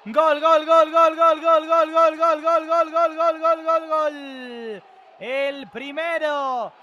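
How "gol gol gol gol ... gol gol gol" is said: drawn-out goal cry, loud; goal scream. Real, not acted. Goal call, futsal commentary.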